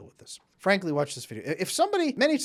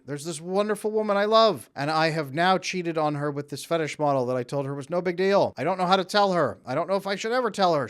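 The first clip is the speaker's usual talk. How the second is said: louder, higher pleading confession; desperate plea; 4 semitones higher, 6 dB louder than usual. Retold or imitated. Engaged client begging his coach for help, loud and desperate. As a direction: beg for help, panicking. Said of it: "And they say".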